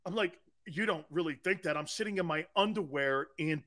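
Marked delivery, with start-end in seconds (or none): 0.7-1.8 deadpan reply. Retold or imitated. His own deadpan reply, retold.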